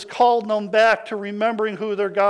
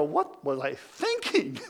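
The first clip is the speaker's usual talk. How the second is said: quiet, slow, dismayed muttering; a soft, slow groan of regret; rueful second thoughts; 4 semitones lower, 5 dB quieter than usual. Retold or imitated. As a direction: let the dream collapse in your voice. Disillusioned spouse voiced in story.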